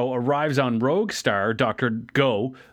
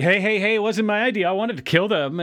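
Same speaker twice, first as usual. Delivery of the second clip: defensive henchman; 6 semitones higher than usual. Retold or imitated. Crasher hurriedly defends himself.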